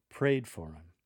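"prayed for him" with him as 'im; casual dropped h. Shown as a demonstration. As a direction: slur "him" into "for". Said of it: "drop the T H from your pronunciation".

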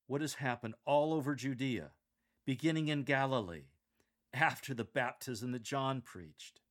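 like telling a friend thrilling news; emphatic on "all over Judea" and "beginning in Galilee"; excited. Shown as a demonstration. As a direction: build enthusiasm, pausing after "Judea" and "Galilee". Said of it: "Inject some excitement in your voice".

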